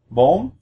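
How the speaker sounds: "bom" sliding sharply up in pitch; rising tone. Shown as a demonstration. Teacher comparing number four, "bom" with rising tone. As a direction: lift the voice through "bom". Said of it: "your voice wants to go up".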